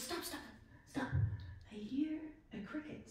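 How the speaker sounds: a hushed, urgent call to stop and listen. Retold or imitated. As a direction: stop your friend softly so the faint sound isn't lost. Man hears a faint cricket.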